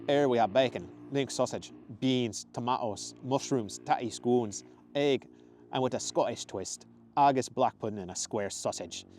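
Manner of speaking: put-on hearty Scottish accent; proud Scottish man. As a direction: proudly list it in a Scottish brogue. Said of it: "The man grinned proudly".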